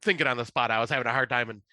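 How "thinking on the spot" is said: normal talking voice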